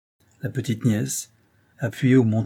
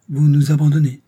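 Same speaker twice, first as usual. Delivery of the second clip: louder, higher, stress on Vous; hurt accusation; 5 semitones higher, 9 dB louder than usual. Acted. Madame Brun repeats her reproach, stress on "Vous". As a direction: lean hard on "Vous" in wounded blame. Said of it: "en pinçant les lèvres".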